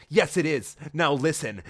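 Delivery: mild mock anger. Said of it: "said Sonic angrily to Amy".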